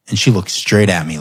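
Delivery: usual speaking voice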